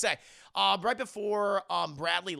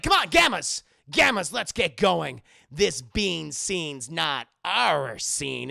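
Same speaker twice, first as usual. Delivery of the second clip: louder call to the gang; loud rally; 6 dB louder, slower than usual. Retold or imitated. Brad calling the Gammas out of the café. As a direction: call your crew out.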